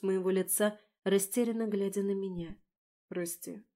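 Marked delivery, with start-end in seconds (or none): 3.1-3.6 soft, hushed "Прости"; a quiet hushed sorry; whispered apology. A narrator's reading. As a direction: breathe the word out softly. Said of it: "прошептал он".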